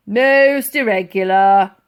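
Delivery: muttered. A narrator's reading. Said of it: "muttered the old soldier".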